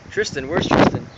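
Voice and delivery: loud mock teacher call. Teacher looking for a missing student, calling out.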